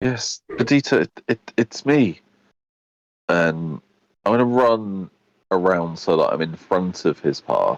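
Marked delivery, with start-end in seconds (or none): 0.0-2.2 crackly, staticky-sounding voice. Narrating the scene, the storyteller voices Nova answering Adita in a staticky voice. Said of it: "in a staticky kind of voice".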